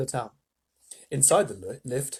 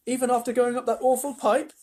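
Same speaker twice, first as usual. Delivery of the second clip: high-pitched disbelieving question; astonished boy; 9 semitones higher, 3 dB louder than usual. A narrator's reading. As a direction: ask as an amazed child. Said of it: "asked Charlie, astonished".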